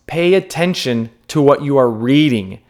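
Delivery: "attention" leaned on firmly; stress on attention. Real, not acted. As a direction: put the emphasis on the word "attention". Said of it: "Emphasis on the word attention".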